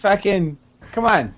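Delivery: a lightly put-on Boston accent, grumbling; a Revere Beach guy with a light Boston accent, griping about freestyle; mock Boston accent. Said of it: "who the fuck talks like that?".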